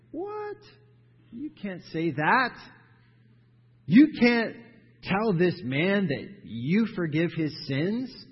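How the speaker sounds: high-pitched, loud outraged disbelief; shocked objection. Retold or imitated. Religious crowd gasping at Jesus, outraged. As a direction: squawk it like scandalized religious leaders.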